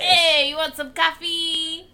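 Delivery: high, loud, slow cartoon worm voice; squeaky alien creature offering coffee; high, goofy worm-alien squeal; worm guy voice. Voicing worm guys from the film.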